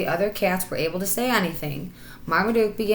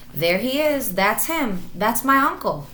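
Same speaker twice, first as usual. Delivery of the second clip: higher, louder happy shout; 5 semitones higher, 4 dB louder than usual. Acted. Marmaduke spotting the real tiger at last, shouting excitedly. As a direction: call out thrilled at finding him. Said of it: "shouted Marmaduke".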